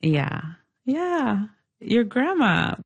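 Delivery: ordinary talk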